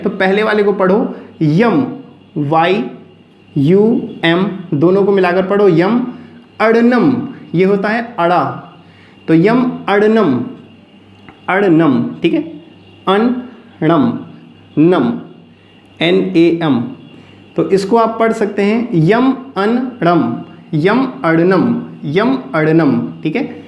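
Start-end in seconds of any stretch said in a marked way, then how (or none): 0.0-6.1 यम spelled वाई यू एम, then joined; spelling it out. Shown as a demonstration. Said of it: "इसे क्या pronunciation करें". 20.7-23.2 यम अड़नम slow, with a retroflex ड़; slow demo. Shown as a demonstration. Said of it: "ऐसे pronounce कर सकते हैं".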